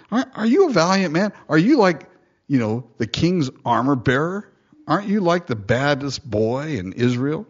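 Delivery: sarcastic jeering question; taunting. Retold or imitated. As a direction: goad him like a schoolyard bully. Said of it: "He just taunts him".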